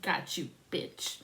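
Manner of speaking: slow unvoiced whisper of triumph; whispered gotcha. Kid catching the boogeyman, slow whisper. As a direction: hiss it out slowly like a trap snapping shut. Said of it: "I was like".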